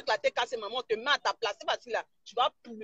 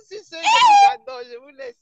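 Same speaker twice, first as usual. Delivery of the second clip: words squeezed out high through laughter; laughing sign-off; 13 semitones higher, 11 dB louder than usual. Real, not acted. Blogger signing off to fans, laughing high through words. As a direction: say goodbye while still laughing.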